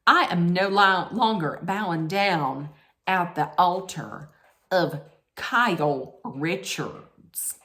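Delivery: lightly put-on Southern accent, slowing at the end; mock-grand Southern accent, drawn out on the name; bad Southern accent. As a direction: attempt a Southern drawl, poorly. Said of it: "That's the worst Southern accent".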